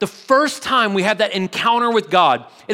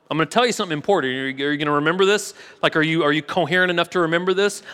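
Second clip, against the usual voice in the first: rapid, casual voicing of an angel; quick paraphrased angel checking he's following; 3 semitones lower, much faster than usual. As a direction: rattle off the questions, slightly lower. Angel checks on wobbly Daniel.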